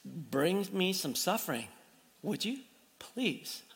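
soft, a hint of a sheepish plea to God; mock prayer. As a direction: pray it half-jokingly, quietly. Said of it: "didn't get up this morning and pray".

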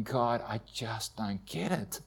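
numb disbelief. Retold or imitated. Husband at the morgue, murmuring to God, numb and quiet. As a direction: let the words drain out in bewildered grief. Grieving husband at wife's body.

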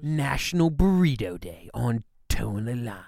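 hushed slogan whisper. Pretend. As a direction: whisper it like a secret promo.

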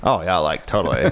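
California accent. Shown as a demonstration. Guest showing off a California accent on request, lightly done. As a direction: lean into a laid-back California accent on totally. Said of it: "what about a California accent then? Can you do that?".

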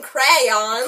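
crayons slowly drawn out in two syllables, rising; exaggerated crayons. Shown as a demonstration. Trying out the new way, crayons over-enunciated. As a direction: overdo both halves of crayons. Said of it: "I'm gonna start saying that now".

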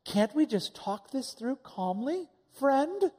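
lightly voiced sugary peacemaker, slow; a hint of fake calm, slowly; mock calm peacemaker. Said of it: "And I was like".

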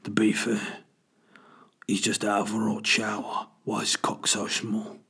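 lightly put-on bird voice; Ray Winstone. Bird commenting on man from the shower, lightly imitated. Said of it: "'cause Ray Winston vo-, voices the birds".

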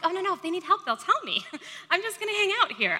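mock carefree little-sister brush-off; breezy youngest child. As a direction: blithely wave it off, hammed up with a laugh. Acting herself as carefree youngest child.

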